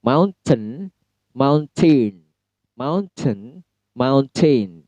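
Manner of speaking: "mountain" with a clear, sharp T; British mountain. Shown as a demonstration. Teacher drilling the British "mountain" aloud. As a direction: pronounce the T in "mountain" fully. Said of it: "T-nya jelas".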